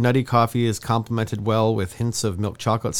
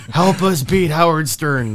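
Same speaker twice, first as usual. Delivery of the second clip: laughing; 6 semitones higher, 5 dB louder, slower than usual. Pretend. Mock GoFundMe plea.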